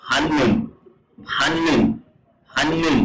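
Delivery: "হান্নুন" with a doubled n, falling; Korean pronunciation demo. Shown as a demonstration. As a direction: model "হান্নুন" as one joined word, n held across both syllables. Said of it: "তাহলে কোরিয়ানরা উচ্চারণ করবে". ("হান্নুন" ন-এর দ্বিত্ব উচ্চারণে)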